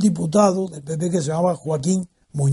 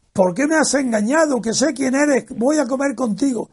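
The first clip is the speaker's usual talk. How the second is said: a playful hammed-up accusation, voice raised high; shouted reproach; 5 semitones higher than usual. Friend teasingly calling him out across the hotel in a mild mock yell. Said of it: "gritando fuerte".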